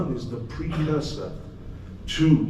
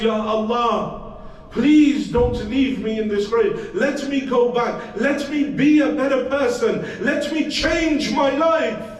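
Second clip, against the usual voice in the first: high, rising, louder plea to God; desperate calling out; 10 semitones higher, 5 dB louder than usual. Acted. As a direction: build the begging higher and higher. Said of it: "in my desperation I called out".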